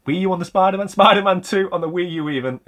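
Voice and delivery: Spider-Man said high with a puzzled rise; a quick double-take at his own words; surprised at own slip. Real, not acted. Catching his own muddled wording, puzzled and surprised.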